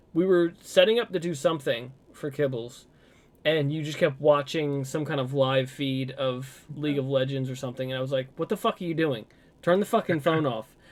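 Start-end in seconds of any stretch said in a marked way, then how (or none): 8.4-10.7 heated, angry, exasperated outburst. Retelling a past argument while the other kept watching a feed: retelling an angry outburst. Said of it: "I was getting so pissed off at you".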